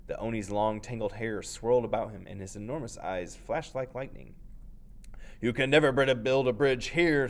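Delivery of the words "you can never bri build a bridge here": thundering. Acted. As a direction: boom it out like a monster. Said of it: "thundered the oni".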